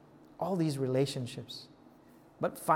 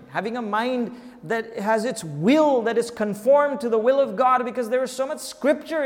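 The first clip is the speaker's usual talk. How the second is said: louder, rising exhortation; emphatic preaching; 5 semitones higher, 7 dB louder than usual. Real, not acted. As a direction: build force toward the key phrase. Preaching rises in force.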